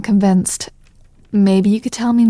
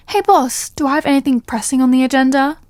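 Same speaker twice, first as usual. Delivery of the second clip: mock phone call; 5 semitones higher than usual. Fake phone call to boss.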